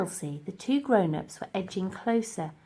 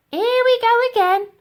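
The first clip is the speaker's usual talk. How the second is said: much higher, louder exasperated sigh-line; weary Dotty; 11 dB louder than usual. Acted. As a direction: roll your eyes at him out loud. Dotty rolls her eyes.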